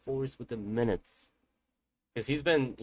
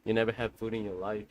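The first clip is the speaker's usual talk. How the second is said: mock scolding; 4 dB louder than usual. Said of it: "My dad was like".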